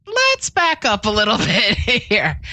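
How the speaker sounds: slow, amused with a laugh inside. Real, not acted. To a caller who clicked a phishing link, slow and amused. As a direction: ease them back with a chuckle.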